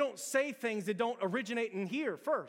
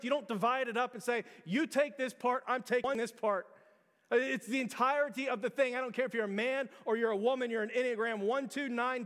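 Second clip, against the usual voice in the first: raised, urgent preacher voice; preaching at full force; 5 semitones higher, 4 dB louder than usual. Real, not acted. Pastor challenging the church about holding back, urgent preaching. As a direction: press the church hard, louder.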